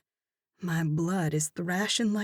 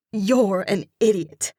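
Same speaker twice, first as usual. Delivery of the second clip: a touch of angry seethe, louder; mild seething; 5 dB louder than usual. Acted. Narrator snapping at Gavin before fleeing, seething. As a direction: spit it at him under breath. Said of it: "I seethe to Gavin".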